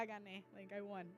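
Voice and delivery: a small laugh through the words. Real, not acted. Teacher laughing about winning over her class, half laughing. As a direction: let it spill out with a laugh. Proud win, laughing after.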